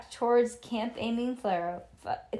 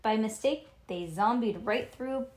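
usual speaking voice

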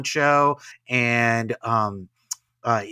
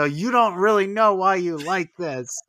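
put-on deadpan to the kid; 5 semitones higher, 5 dB louder than usual. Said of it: "look at the kid and go".

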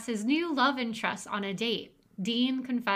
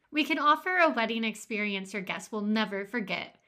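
ad read. Acted. Reads a mock wedding ad.

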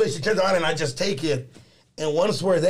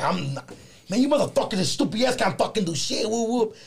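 mock rant; 4 semitones higher than usual. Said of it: "I'm fucking going off on the poet".

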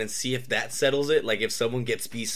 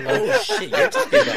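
surprised; 6 dB louder than usual. Real, not acted. Realizing it's a fistfight.

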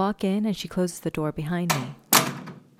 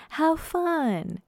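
high, bright chirp; chirpy; 11 semitones higher than usual. Acted. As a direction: chirp it playfully. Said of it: "Kate chirps".

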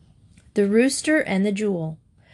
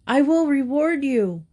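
higher, a lightly voiced wolf; 6 semitones higher than usual. A narrator's reading. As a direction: promise it like a sly wolf. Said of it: "said the wolf".

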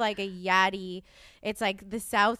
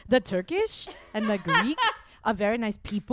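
Lindsay Lohan. Acted. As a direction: imitate a celebrity's put-on European accent. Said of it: "You're really good at it".

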